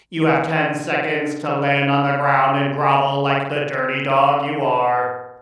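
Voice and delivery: mock robot command, the end slowed down; lightly voiced robot barking a command at its pet; imitating a robotic voice. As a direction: play a cold machine giving orders. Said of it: "I just hear a robotic voice behind me go".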